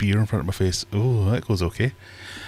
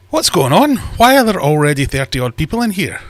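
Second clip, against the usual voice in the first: surprised; 5 semitones higher, 6 dB louder than usual. Real, not acted. Surprised at early crowd.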